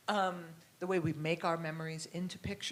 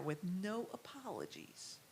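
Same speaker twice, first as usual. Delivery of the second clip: imitating Carrie; 11 dB quieter than usual. Speaker recalling the painter's voice in her head, hushed imitation. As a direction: drop to a soft, unhurried murmur. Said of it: "He would say it like that".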